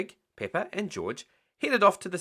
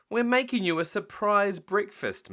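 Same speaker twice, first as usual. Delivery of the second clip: put-on higher little-girl voice; lightly voiced Peppa; 8 semitones higher, 3 dB louder than usual. Peppa proudly telling Mummy about breakfast, high voice. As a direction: sound proud of the surprise.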